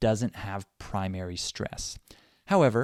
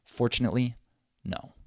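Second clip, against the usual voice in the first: FORTUNATELY with TUNATELY rushed and reduced, then separate NO; fast unstressed syllables; 2 semitones higher, faster than usual. Shown as a demonstration. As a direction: hit FOR, race through TUNATELY, then NO. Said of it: "say them really fast".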